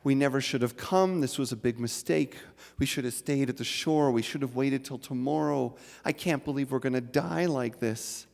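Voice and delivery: a frightened husband in a storm, pleading; husband in the tempest crying out in mild panic; panicked crying out. Acted. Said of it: "he begins to cry out".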